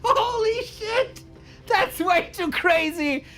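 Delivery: high, slow, near-crying yell; overwhelmed shout. Real, not acted. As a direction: cry out in stunned joy. Caster overwhelmed after the game.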